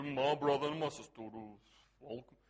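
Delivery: very low mock-pious greeting; religious demon voice. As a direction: put on a weird, deep churchy voice. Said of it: "like this religious demon thing manifesting".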